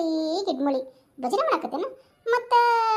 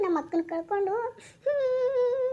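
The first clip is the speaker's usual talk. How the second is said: mild acted weeping; acted crying; 2 semitones higher than usual. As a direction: act out grief for the lost sister. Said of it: "ಆ ಹುಡುಗಿನ ಅಳ್ಸಕತ್ತಲ್ಲಲೇ".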